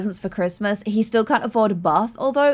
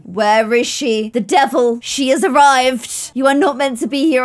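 slow, loud, hammed-up announcement of a villain's arrival; mock dramatic dread; 5 dB louder than usual. To the viewers as the unwanted neighbour shows up, mock ominous and loud. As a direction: draw it out like the devil has walked in.

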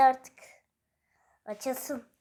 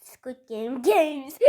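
whispered words breaking into laughter; can't stop laughing; laughing till it hurts; laughing hard; 3 dB louder, much slower than usual. Real, not acted. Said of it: "gülmekten olacağım".

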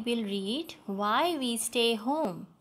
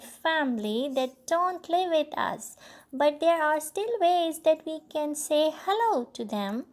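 put-on an older sister encouraging her little sister; big sister Millie; 4 semitones higher than usual. Big sister Millie explains to Susie.

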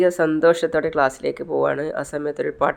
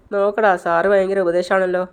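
higher-pitched jeer; mocking; 4 semitones higher than usual. Ragger jeers to his friends about the lecturing stranger, mocking. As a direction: make fun of the preachy sir. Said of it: "അവർ കളിയാക്കി ചിരിക്കുകയാണ്".

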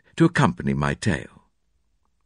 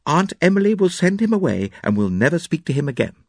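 put-on young woman voice; 8 semitones higher than usual. A narrator's reading. Cynthia's hopeful quote.

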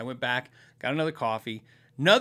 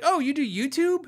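high-pitched, eager mock question; imitated excitement; 10 semitones higher than usual. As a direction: play an excited barista hearing of a YouTuber. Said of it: "she was so excited".

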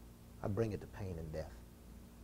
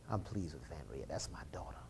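soft whisper, proud and tender; the Father praising his children, whispered; whispered praise; 6 semitones lower, 9 dB quieter than usual. Retold or imitated. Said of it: "say things about you".

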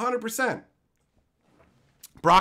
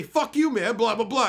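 retold angry comeback; 5 semitones higher, 5 dB louder than usual. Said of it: "walks off all angry".

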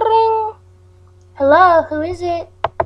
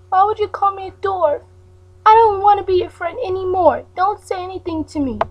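higher, offended friend snapping back; upset higher friend voice; 6 semitones higher than usual. Acted. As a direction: play the insulted friend a bit higher. Tiff insulted, upset.

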